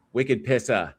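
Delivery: Wicked Pissa with a light Boston accent, r dropped; a hint of a Boston accent on Wicked Pissa. Shown as a demonstration. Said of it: "try to say it with the, with the Boston accent".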